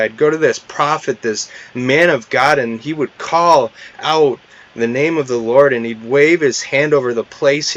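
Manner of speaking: exasperated general ranting at the prophet's order; angry outburst. Retold or imitated. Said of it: "He's angry".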